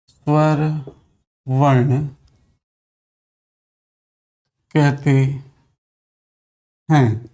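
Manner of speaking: each word set apart by long pauses, स्वर, वर्ण, कहते, हैं; dictating slowly to students; slow dictation. Shown as a demonstration.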